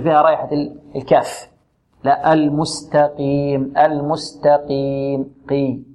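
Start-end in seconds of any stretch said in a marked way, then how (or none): 2.0-5.3 المستقيم slowly, qaf not thinned toward kaf; correct pronunciation. Shown as a demonstration. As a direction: stretch المستقيم carefully. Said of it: "ولا نبالغ كذلك". (المستقيم بتفخيم معتدل)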